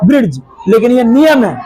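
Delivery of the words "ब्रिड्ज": "ब्रिज" with a hard d before j; falling "ब्रिज" said as "brid-j"; mistaken pronunciation. Shown as a demonstration. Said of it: "क्योंकि डी से ड होता है".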